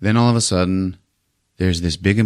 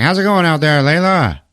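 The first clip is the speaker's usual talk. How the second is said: higher, louder hammed-up hero; mock hero voice; 9 semitones higher, 4 dB louder than usual. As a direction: play the cocky captain, hammed up. Voicing Treat Williams in retold movie.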